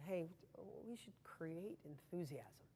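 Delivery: a deliberately boring motivational line; dull, low-energy pitch. Shown as a demonstration. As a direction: say it like you don't care at all. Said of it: "If I talk like that to you".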